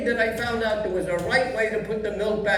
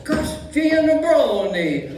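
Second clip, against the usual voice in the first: put-on Italian accent; 4 semitones higher than usual. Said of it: "Excuse the accent, when I say Italian names".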